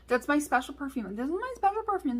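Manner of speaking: lightly acted wounded insistence; retold upset. Daughter in back seat as family laughs, mildly upset protest. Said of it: "so upset that they were just".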